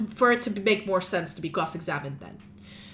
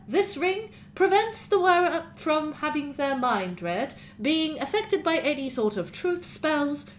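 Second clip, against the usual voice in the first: droning professor; 5 semitones higher than usual. Acted. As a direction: lecture the court, unhurried. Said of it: "his droning voice of a professor".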